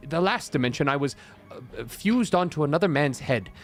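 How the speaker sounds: a hint of a dithering wizard; fussy old wizard. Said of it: "my name is the wizard Morden Kanan".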